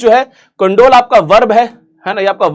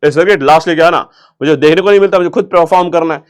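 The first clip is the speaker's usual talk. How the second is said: Munna Bhai impression; 4 semitones lower than usual. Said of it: "जैसे वो मुन्ना भाई बोलता सर्किट को".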